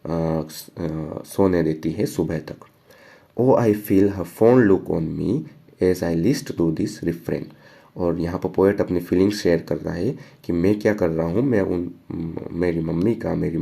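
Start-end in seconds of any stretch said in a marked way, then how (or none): 3.4-7.4 slow, measured poetry reading; poem recitation. Acted. Teacher reading the poem to students, slow recitation. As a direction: read the stanza slowly, word by word. Reads poem line aloud.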